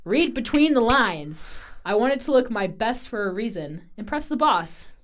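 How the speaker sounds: emphatic, finger-snapping mock rival. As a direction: hammer the message home like a rival. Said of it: "emphatically snapping her fingers".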